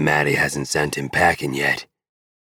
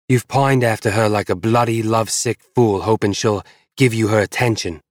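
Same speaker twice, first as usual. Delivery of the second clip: high, louder woman's voice through gritted teeth; spitting through gritted teeth; 7 semitones higher, 4 dB louder than usual. Acted. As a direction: spit each word at him, teeth clenched. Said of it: "She spits her answer at me through gritted teeth".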